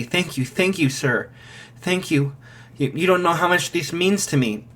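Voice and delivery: mother bows to the gate voice, softly gushing thanks; grateful thanks. Acted. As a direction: thank him while bowing over and over. Mother bowing, thanking profusely.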